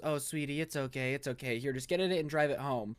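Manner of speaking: soft, placating imitation of a father; gently calm a tantruming child; soothing dad. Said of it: "the dad doesn't get mad".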